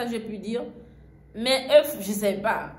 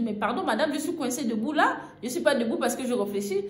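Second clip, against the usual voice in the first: excited pleading; 4 semitones higher than usual. Retold or imitated. Pleading explanation to vendor.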